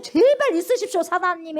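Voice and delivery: high, loud hammed-up pleading; mock begging. Preacher mocks begging Satan to stay, high and loud. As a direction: overdo the polite begging.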